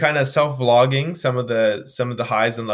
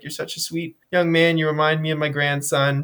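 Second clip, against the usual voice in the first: lightly voiced old lady; 4 semitones higher than usual. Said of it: "probably a great-grandmother".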